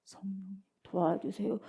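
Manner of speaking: slow, soft, low half-hearted plea; passive plea. Shown as a demonstration. Preacher showing the wrong way to pray, slow passive plea. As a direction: drag it out feebly, with no effort. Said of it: "이게 되겠냐 이 말이".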